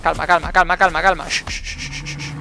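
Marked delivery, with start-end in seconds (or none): 1.3-2.3 soft unvoiced shush. Real, not acted. Gamer hushing his nervous party, soft shushing. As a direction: hush them down gently. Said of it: "Cálmense, cálmense".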